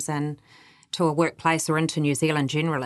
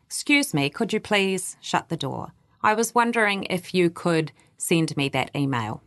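polite softened request. Shown as a demonstration. Coach showing the Kiwi way of softening a request. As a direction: ask sweetly, as if offering a choice. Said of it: "we add softeners to sound more polite".

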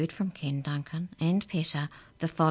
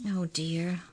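dismayed. Acted. Jake dismayed.

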